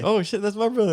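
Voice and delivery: high, startled take on the line; shocked realization. Retold or imitated. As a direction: act like it just dawned on you. Friend's retold surprised reaction.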